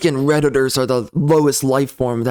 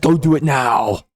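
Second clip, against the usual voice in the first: shout; 3 semitones lower than usual. Real, not acted. Ranting at online users.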